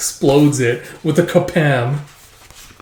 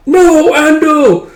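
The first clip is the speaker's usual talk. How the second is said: high, loud, slow mock wail of a name; anguished cry; 13 semitones higher, 7 dB louder, much slower than usual. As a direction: stretch the name out in hammed-up despair. Character crying out as comrade falls.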